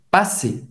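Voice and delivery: PASSER ending in an é vowel, no R; final -er as é. Shown as a demonstration. Teacher explaining verb endings, PASSER ending in é. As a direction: say PASSER with a silent R. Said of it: "se fala E".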